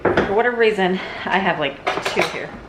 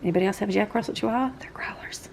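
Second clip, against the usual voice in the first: quick breathy whisper to viewers; whispered aside; 5 dB quieter than usual. Real, not acted. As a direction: toss it off in a fast whisper.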